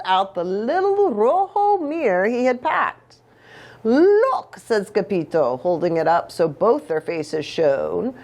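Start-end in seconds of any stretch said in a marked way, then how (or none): 3.8-4.6 high, loud eager call; excited. Acted. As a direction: grab attention eagerly. Eager showing mirror.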